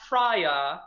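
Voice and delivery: Freya with a long, open ah; careful Norse-style Freya, rising at the end; correct pronunciation. Shown as a demonstration. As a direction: sound out Freya slowly as FRAH-yah. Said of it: "have not been pronouncing correctly".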